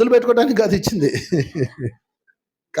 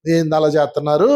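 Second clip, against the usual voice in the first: lower, grumbling mock annoyance; irritated complaint; 6 semitones lower than usual. Imitating a negative person, a lower grumbling complaint. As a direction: sound put out and negative. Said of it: "వ్యతిరేకతతో ఉన్నావో".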